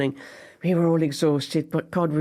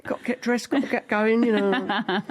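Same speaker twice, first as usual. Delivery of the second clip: Pam; 6 semitones higher than usual. Retold or imitated. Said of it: "She goes".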